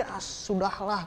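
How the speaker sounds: low, soft brush-off; giving up. Acted. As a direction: trail down into a slow, quiet never mind. Dodges an embarrassing campus abbreviation.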